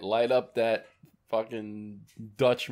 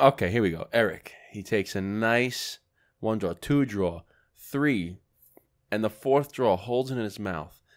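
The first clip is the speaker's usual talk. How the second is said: mock commentary; 2 semitones lower than usual. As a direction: narrate it like a nature documentary. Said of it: "Now, commentary".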